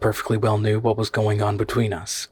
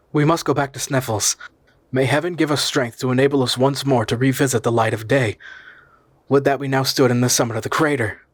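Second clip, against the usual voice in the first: growing excitement; 3 semitones higher than usual. Acted. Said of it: "getting excited by my own words".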